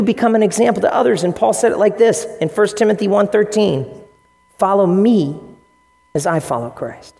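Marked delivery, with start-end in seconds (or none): 4.6-7.1 not arrogant. Retold or imitated. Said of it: "he doesn't say that arrogantly".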